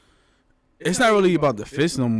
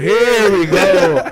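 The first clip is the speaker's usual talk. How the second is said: hype intro; 5 dB louder, much slower than usual. Acted. Hyping up the podcast intro.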